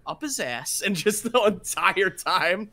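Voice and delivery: lightly voiced celebrity impression; a hint of the halting monologue voice; Christopher Walken. Retelling the watch scene, lightly voiced Walken impression. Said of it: "the scene with Walken".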